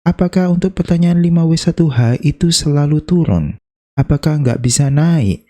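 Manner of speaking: a hint of an eager student asking; viewer's question. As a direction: play a curious viewer. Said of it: "ada pertanyaan lagi nih biasanya". (murid yang penasaran bertanya kepada Mister Hu, sedikit bersemangat)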